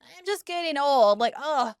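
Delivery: lightly mocking whiny patient impression; whiny complaining. Clinician mimicking a patient who says he's getting old, mock whiny. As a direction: imitate a patient moaning about aches. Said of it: "he's so whiny and complainy".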